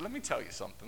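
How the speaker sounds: ominous low warning. Retold or imitated. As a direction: drop low like trouble is coming. Jesus' look, listener dreads it.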